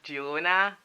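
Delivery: non-Spanish "jee-ROH-na" for Girona; own pronunciation. Shown as a demonstration. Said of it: "Girona for me".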